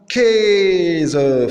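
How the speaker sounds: "Käse" with a long é vowel; demonstrated pronunciation. Shown as a demonstration. Teacher giving the A umlaut example, demonstrated pronunciation. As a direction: stretch the first vowel of "Käse" as é. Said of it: "c'est le E".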